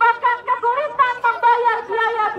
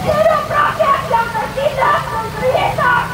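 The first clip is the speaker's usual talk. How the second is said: shouted rally slogans, pitched up; 3 semitones higher than usual. Real, not acted. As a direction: call out each slogan to the crowd. Rally chant leader calling slogans.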